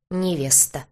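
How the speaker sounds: "невеста" pressed out with weight; "невеста" said with grudging emphasis; heavy pressure. A narrator's reading. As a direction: lean hard on "невеста". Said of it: "Последнее слово он произнёс с таким нажимом".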